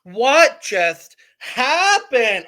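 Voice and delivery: very slow, drawn-out Australian impression; badly faked Australian, stretched out; attempted Australian accent. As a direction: have a clumsy go at an Australian accent. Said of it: "I can't do an Australian accent".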